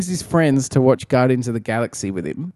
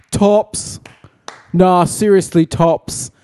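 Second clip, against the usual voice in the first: mock gushing; 6 semitones higher, 3 dB louder, slower than usual. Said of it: "not just me going".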